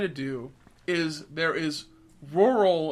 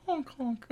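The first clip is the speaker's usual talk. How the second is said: higher clown horn honk; silly clown honk; 9 semitones higher, 6 dB quieter than usual. Pretend. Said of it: "Was that what it's called?".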